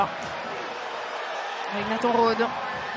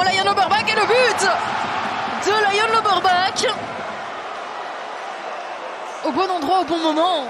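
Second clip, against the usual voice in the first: excited goal call; 4 semitones higher than usual. Real, not acted.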